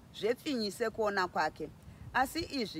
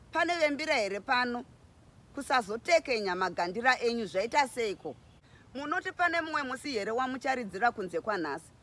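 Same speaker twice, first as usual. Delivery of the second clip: mild mock boasting woman at the feast; teasing sahwira. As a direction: tease the drummers while dancing. Sahwira teases crowd while dancing.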